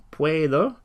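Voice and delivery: teacher spelling out the phrase in parts; phonetic model. Shown as a demonstration. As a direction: break the phrase up for learners to copy. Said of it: "try and follow the phonetics".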